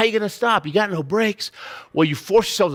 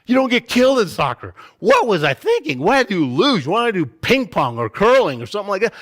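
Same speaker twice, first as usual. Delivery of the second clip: acted-out loud, high freak-out; exasperated second thoughts after a scare; panicked regret; 4 semitones higher, 5 dB louder than usual. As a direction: berate yourself in mock panic. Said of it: "You wanna quit 'cause the fear is that strong".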